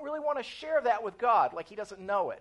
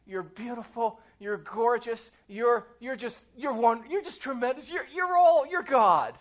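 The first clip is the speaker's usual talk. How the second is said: mock-sweet, halting flattery; nervously nice imitated prayer; really nice. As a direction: stumble for compliments, playing it careful. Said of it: "I'll talk to God really nice".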